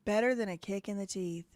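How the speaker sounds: put-on light try at a British accent, repeating the clip; mock British accent. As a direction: streamer copies the British clip in a half-hearted British accent. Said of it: "I gotta work on my British accent".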